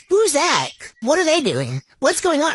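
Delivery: lightly voiced nosy old man. Teasing her husband, mock old man voice. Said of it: "you do this old man thing".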